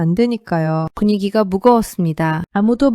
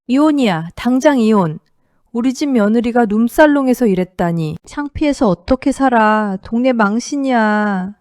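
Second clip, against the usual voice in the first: mild mock shout. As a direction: slam the verdict down, voice slightly raised. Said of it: "테이블을 쾅 치며 소리쳤습니다". (살짝 높인 목소리로 화내듯 외치기)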